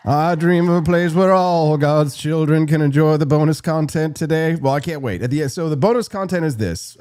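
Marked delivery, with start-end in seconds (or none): 0.1-4.5 mock grand speech. Celebrating the gifted subs.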